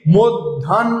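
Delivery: মধ্যাহ্ন as mod-dhan-ho, h after n; correct pronunciation. Shown as a demonstration. Teacher answering own question on pronunciation, careful pronunciation. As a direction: end মধ্যাহ্ন on a separate n-ho. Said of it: "তাহলে হবে উচ্চারণটা কি".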